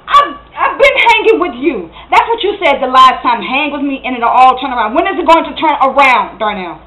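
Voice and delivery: forceful, impatient reproach; exasperated accusation. Acted. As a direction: throw the old promise back at Darnell. Acted quarrel, fed up with promises.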